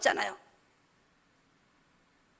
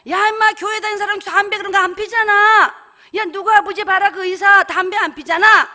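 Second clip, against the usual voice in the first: gruff man scolding; 3 semitones higher, 5 dB louder than usual. Retold or imitated. Grown man scolding child.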